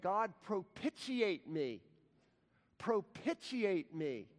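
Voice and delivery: mock-earnest cry for mercy; earnest plea. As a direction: beg it slowly, pressing each word. Tax collector begging for mercy.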